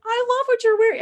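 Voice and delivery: high, excited imitation of a server; gushing compliment. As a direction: gush in a high voice.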